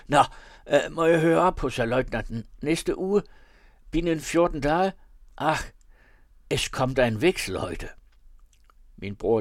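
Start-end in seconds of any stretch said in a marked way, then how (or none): 0.1-7.9 German dialect. A narrator's reading. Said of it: "med sin tyske dialekt".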